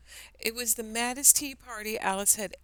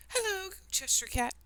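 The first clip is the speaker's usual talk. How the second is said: timid; 13 semitones higher than usual. Acted. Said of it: "she said timidly".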